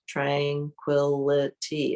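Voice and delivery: Tranquility slowly spelled out as tran-qui-li-ty; slow, syllable by syllable. Shown as a demonstration. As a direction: stretch Tranquility out, one clear beat per syllable. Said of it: "tranquility has a lot of syllables".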